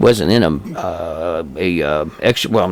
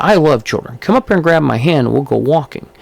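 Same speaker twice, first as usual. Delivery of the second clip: higher-pitched retold invitation as a dare; lightly imitated challenge, pitched up; mildly challenging; 4 semitones higher than usual. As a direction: coax a child, half daring. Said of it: "he was kind of challenging".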